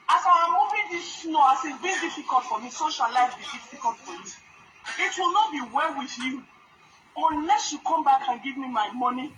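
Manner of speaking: a solemn curse on the thief; mock curse. Real, not acted. Cursing the thief who took money.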